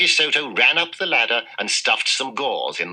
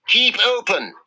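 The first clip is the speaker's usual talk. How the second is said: yell; 13 semitones higher than usual. A narrator's reading. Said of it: "yelled Doctor De Soto".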